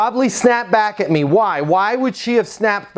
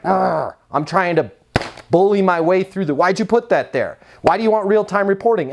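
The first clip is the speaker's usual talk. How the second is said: aggressive tone. Shown as a demonstration. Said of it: "with that tonality".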